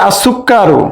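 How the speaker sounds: "আসুক্কারু" as as-sukkaru, no L; silent lam. Shown as a demonstration. Teacher showing students the silent lam in "আসুক্কারু". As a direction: merge the article into the S of "আসুক্কারু". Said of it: "উচ্চারণ হচ্ছে না".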